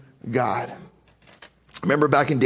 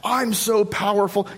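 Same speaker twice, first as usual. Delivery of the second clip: boastful Assyrians; 6 semitones higher than usual. Retold or imitated. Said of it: "the Assyrians saying".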